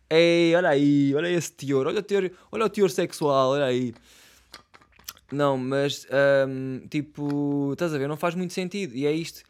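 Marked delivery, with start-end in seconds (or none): 0.1-3.9 mock scandalized. Teasing his own sexual joke.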